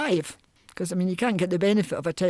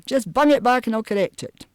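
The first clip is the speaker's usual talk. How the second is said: Glasgow lawyer; 5 semitones higher than usual. Retold or imitated. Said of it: "phone up a lawyer in Glasgow".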